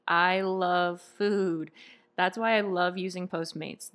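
polished podcast sponsor read; upbeat scripted ad delivery. Acted. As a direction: read it like a host plugging a sponsor, fluent and scripted. Host reads sponsor ads.

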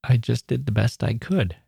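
mildly choked-up imitation, with halting lead-in. Retelling the cartoonist's answer to praise, gently choked up. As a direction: lightly imitate someone holding back tears. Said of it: "in a choked up voice".

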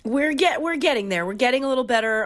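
congested, stuffy head-cold voice; underwater. Real, not acted. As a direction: talk like you're underwater with a cold. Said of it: "I still sound like I'm underwater".

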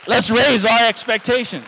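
full-throated preacher's shout; rallying shout. Real, not acted. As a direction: cry it out to fire up the congregation. Rallying cry to the congregation.

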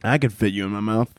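hippo voice. Retold or imitated. The hippo speaking to Timmy.

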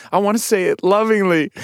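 mock loving. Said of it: "I'm like".

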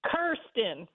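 "Kirsten" starting like "cursed", KUR-stən. Shown as a demonstration. Co-host correcting the host on the senator's name, "Kirsten" as KUR-stən. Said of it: "how you pronounce her name".

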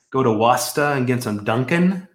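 a light, hammed-up Boston accent; mock Boston local, r's dropped. Joking with the co-host in a mock Boston accent. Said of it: "I'll stop trying to do my Boston accent".

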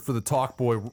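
ordinary talk, nothing marked

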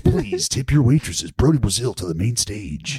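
lightly voiced club DJ; hint of strip club DJ patter; strip club announcer. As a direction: work the room like a mock stage announcer. Mock strip club stage announcement.

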